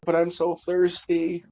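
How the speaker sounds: put-on little girl's plea. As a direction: imitate a weak child begging.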